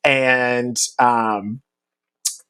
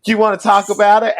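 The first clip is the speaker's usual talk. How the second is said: high, quick, gentle question; lightly voiced caring mentor; 8 semitones higher, faster than usual. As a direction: invite him to open up. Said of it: "He just says".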